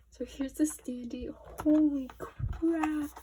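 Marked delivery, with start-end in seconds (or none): 1.6-3.1 very slow, loud, high amazed cry; amazed exclamation. Real, not acted. Fan seeing the standee, drawn out and loud in amazement. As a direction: stretch it out, floored.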